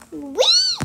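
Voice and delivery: very high, loud squeal; gleeful whee. Real, not acted. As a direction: squeal with delight. Sliding in the game.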